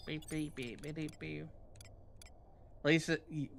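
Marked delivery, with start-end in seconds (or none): 0.1-1.5 soft little mock beeps; imitated beeps. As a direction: beep softly like a small machine. Imitating beeps to fill time.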